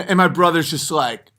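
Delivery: normal talking voice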